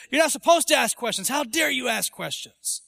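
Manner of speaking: lightly acted telling-off; mock scolding. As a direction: imitate a disapproving church elder. Mimics a scolding church authority.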